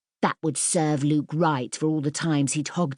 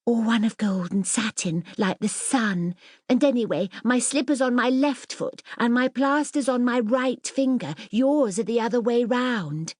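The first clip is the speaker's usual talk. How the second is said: put-on slightly higher, prim girlish voice, showing off; a hint of a haughty child princess; lightly voiced proud little princess; 7 semitones higher than usual. Mirabel boasting to Ellen about her royal slippers, lightly prim.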